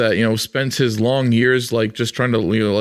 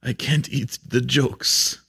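whiny Cyclops; 5 dB quieter, much slower than usual. Pretend. Cyclops answering elf father.

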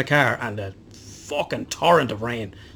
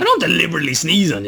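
higher, louder mock-offended denial; indignant protest; 6 semitones higher, 5 dB louder, faster than usual. Real, not acted. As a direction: push back loudly at the accusation. Protesting a playful accusation.

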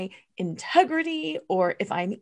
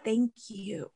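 tearful; 9 dB quieter, slower than usual. Real, not acted. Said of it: "it makes me cry to talk about it".

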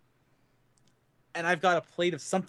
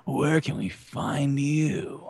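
sexy voice; much slower than usual. Pretend. Mock sexy slow outro.

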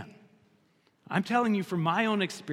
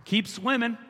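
mock dismissive; 4 semitones higher than usual. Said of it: "get over Peter and say".

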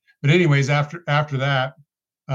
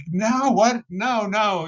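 arguing with God; 7 semitones higher, much slower than usual. Retold or imitated. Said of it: "arguing back and forth".

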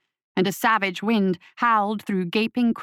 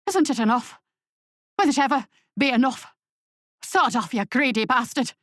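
angry shout. A narrator's reading. Starving farmer shouting at the guild emissary to sod off, furious. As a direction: spit it at the visitor with bitter rage. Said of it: "an angry shout broke his introduction".

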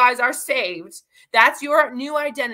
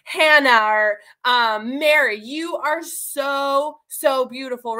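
sweet compliment; slower than usual. Retold or imitated. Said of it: "someone keeps telling you".

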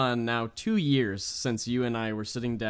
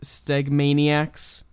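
drawn-out hype shout; 2 semitones higher, 6 dB louder, much slower than usual. Acted. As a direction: stretch it slow and loud like an arena announcer. Stretched hype word.

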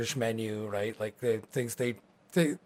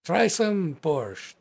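orc hostess voice; 4 semitones higher, much slower than usual. Acted. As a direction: play the hearty orc hostess, a touch accented.

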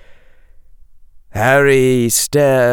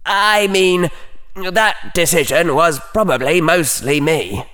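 small mental voice; 8 semitones higher than usual. A narrator's reading. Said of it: "in a small mental voice".

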